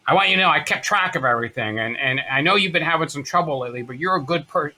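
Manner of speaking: heartfelt motherly impersonation; smoker mother's voice. Retold or imitated. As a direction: reassure your son in mom's voice. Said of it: "I always wanna do her voice".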